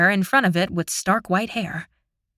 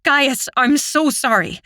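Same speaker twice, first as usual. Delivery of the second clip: pleading; 4 semitones higher than usual. Acted. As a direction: beg him to listen. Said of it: "I plead".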